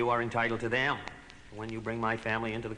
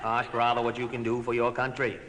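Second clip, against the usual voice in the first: Kennedy delivery. Shown as a demonstration. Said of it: "try this famous sentence of mine".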